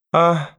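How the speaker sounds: short, high, indistinct groan; weak moan. A narrator's reading. Grandmother fallen off chair, moaning feebly. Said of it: "тихо и невнятно простонала бабушка".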